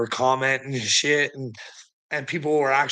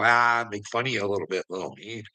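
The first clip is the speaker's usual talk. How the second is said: mocking tone; 5 semitones lower than usual. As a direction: sneer it out, dropping to almost nothing. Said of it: "I can sit here and go".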